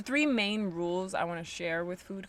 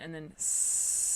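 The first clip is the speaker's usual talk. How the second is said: long drawn-out hissing breath; snake hiss; 3 semitones lower, 5 dB quieter, much slower than usual. Shown as a demonstration. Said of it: "like a snake".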